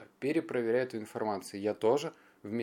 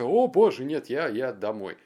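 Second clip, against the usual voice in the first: mock panic; 9 dB louder than usual. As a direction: squeal like you're scared of the needle. Fear of the blood-test needle.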